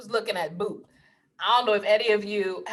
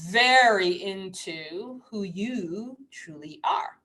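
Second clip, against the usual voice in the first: breathy hushed whisper; slow whispered aside; 2 semitones lower, much slower than usual. Real, not acted. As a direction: drop to a slow intimate whisper. Whispered spiritual emphasis.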